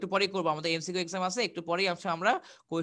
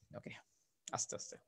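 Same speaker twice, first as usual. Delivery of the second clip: softly, slowly; 18 dB quieter than usual. Shown as a demonstration. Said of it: "একটু আস্তে আস্তে বলেন".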